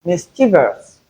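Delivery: Mischievous as MIS-chi-vus; correct pronunciation of Mischievous. Shown as a demonstration. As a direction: end Mischievous in a single "vus". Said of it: "Not mischievous".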